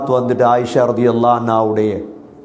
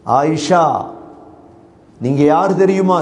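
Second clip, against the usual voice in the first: rising praise; 3 semitones higher than usual. Retold or imitated. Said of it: "Abdullah bin Abbas போல தொடங்கிட்டாங்க".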